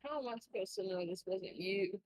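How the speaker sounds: put-on player's line in a North Carolina accent; country accent. Eliza's line, accidentally in a country accent. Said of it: "How did you get your mom's country accent?".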